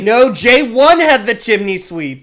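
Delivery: loud exasperated correction. Real, not acted. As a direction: raise your voice, fed up. Heated argument over Js.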